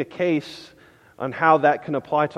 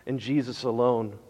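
hushed, earnest plea, voice dropped low; quiet heartfelt appeal; soft pleading; 4 semitones lower, 5 dB quieter than usual. Real, not acted. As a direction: plead gently with the congregation. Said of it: "I'm pleading with you this morning".

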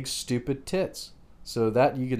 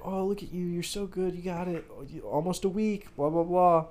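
mock praise; 6 semitones higher, 5 dB quieter than usual. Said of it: "And it was like".

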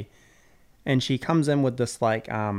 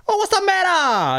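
much higher, laughing mock doctor; mock Doctor Lee; 5 dB louder than usual. Retelling Doctor Lee walking in, high mock voice. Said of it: "he's like".

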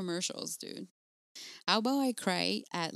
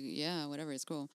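softer, offhand shrug in the voice; unimpressed husband; 2 semitones lower, 4 dB quieter than usual. Retold or imitated. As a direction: imitate an indifferent husband brushing it off. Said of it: "he's just like".

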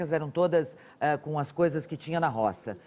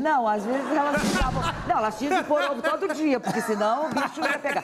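laughing excited; 8 semitones higher than usual. Real, not acted. Laughing about hens laying eggs.

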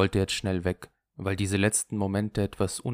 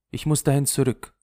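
higher, louder, fed-up complaint; weary disgust; 6 semitones higher, 6 dB louder than usual. A narrator's reading. Lulu tells Henri she must go back, fed up. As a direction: say it thoroughly sick of it. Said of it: "Sie sagte voller Überdruss".

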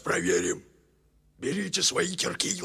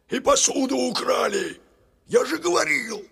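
indignant I-told-you-so grumble; indignant grumbling; 4 dB louder than usual. Acted. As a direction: complain as if proved right. Grumbler complains of stolen dishes.

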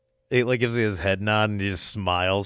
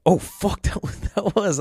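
higher, laughing it out; laughing realization; 10 semitones higher than usual. Retold or imitated. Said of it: "I was like".

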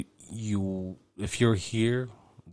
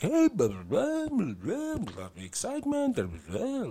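much higher, over-the-top radio announcer parody; mock DJ hype; 12 semitones higher, 3 dB quieter than usual. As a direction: ham up a pumped infomercial DJ. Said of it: "they sound like an infomercial announcer or a D J".

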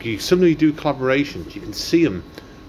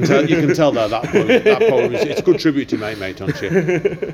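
laughing; 3 semitones higher, 4 dB louder than usual. Real, not acted. Host laughing while praising.

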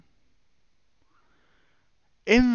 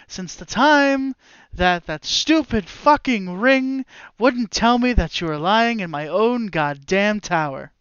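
wizard flaring up; 2 semitones higher, slower than usual. Acted. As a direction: let the grudge burst out slowly. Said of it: "He goes".

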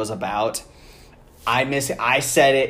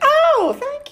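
very high squeaky voice; high-pitched voice; 5 dB louder than usual. Retold or imitated. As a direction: jump way up into a squeak. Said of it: "she gets, like, very high-pitched".

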